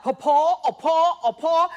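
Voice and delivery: mocking Yellowstone characters, loud hammy cries; mock cowboy kid. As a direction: call out like a TV ranch kid. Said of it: "they're like".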